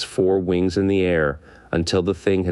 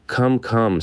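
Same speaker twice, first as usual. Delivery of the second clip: higher, kindly coaxing; 6 semitones higher than usual. A narrator's reading. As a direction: gently cheer him up. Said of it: "said the Scarecrow kindly".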